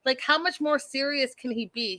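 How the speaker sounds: pitched well up, incredulous, on this fool and Arizona; exasperated retort. Retold or imitated. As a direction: throw the words at her in disbelief. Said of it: "And I was like".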